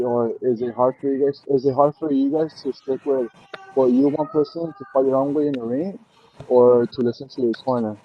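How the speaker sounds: muffled, like through a wall. Real, not acted. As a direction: sound muffled and far away. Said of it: "you sound, like, muffled".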